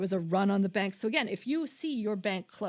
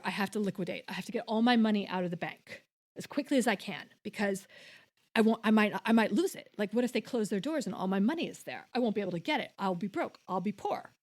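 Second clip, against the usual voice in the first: mock freak-out; 3 dB louder, faster than usual. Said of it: "I could freak out".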